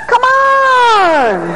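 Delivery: high, loud come on; rally the crowd with it; shouted urging. Real, not acted. Preacher firing up his church, shouting come on.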